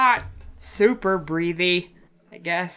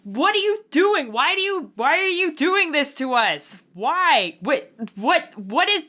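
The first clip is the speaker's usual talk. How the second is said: mock yelling; 10 semitones higher than usual. Zan yelling up at the unseen voice, mock yell. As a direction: demand answers at the ceiling. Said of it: "like, yelling".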